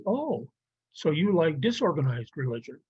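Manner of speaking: mock surprise on "Oh", then a pointed question; sarcastic comeback. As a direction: jump up on "Oh" and needle them. His comeback to the objection.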